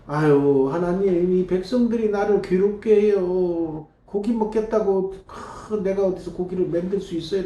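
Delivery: lightly voiced pleading leader; Moses pleading. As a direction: plead with God, worn out. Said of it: "하나님께".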